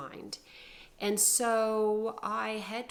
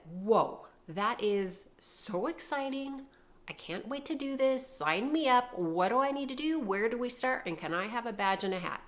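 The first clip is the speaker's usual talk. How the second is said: higher-pitched gushing enthusiasm; eager excitement; 3 semitones higher, 4 dB louder than usual. Retold or imitated. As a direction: play the overeager volunteer, voice lifted. Eager misreading of officer's news.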